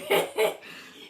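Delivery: brief breathy giggle mid-sentence; amused little chuckle; laugh. Real, not acted. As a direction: break off into a short laugh. Laughing while describing his arguing.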